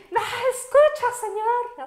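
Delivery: loud, high soldier-style shout; shouting so a hard-of-hearing listener gets through; yelling at the judge. Retold or imitated. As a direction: bark it out like a drill sergeant. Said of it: "y yo así gritándole".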